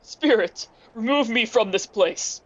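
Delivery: anguished plea. Acted. Begging the spirit to leave.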